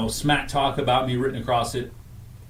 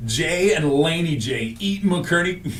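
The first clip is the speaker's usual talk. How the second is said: slow announcement; 4 semitones higher, slower than usual. Shown as a demonstration. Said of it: "Here's what I was gonna call it first".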